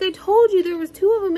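high, fast, excited teasing; laughing told-you-so. Retold or imitated. Telling mom she found the other fake egg, fast and high. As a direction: rush it out, gleeful.

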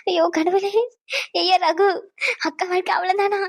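despairing, weeping complaint; tearful lament.

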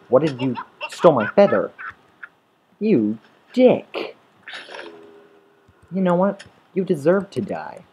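high, loud mock-furious rant at a game enemy; indignant gamer shouting at the thief; angry outburst. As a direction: yell it in high-pitched outrage. Rants at creeper over stolen feather.

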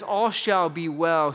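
sincere conviction. Retold or imitated. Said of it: "she means it".

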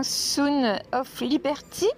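slow English brand name in a French accent. Real, not acted. Vlogger reads an English brand name aloud, slow French accent. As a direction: sound out the English words carefully with a French accent. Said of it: "pour mon accent".

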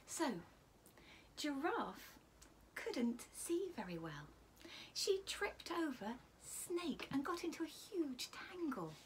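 lively storybook voice with whispered asides; reading to children. Acted. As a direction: read it like a bedtime picture book. Reads a picture book aloud.

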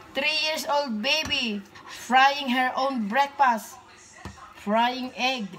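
slow, loud, beaming announcement; proud excited announcing. Real, not acted. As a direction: show her off to everyone. Mom proudly announcing to viewers.

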